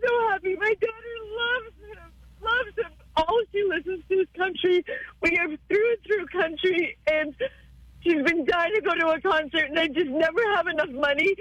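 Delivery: tearful, overwhelmed with joy; real crying from happiness; happy tears. Real, not acted. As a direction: choke up with grateful relief. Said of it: "never be sorry for tears".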